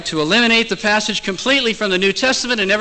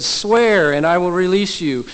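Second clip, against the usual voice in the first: louder, higher, insistent command; pressing demand; 4 semitones higher, 4 dB louder than usual. Retold or imitated. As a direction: press hard for an answer. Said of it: "pressed him hard and".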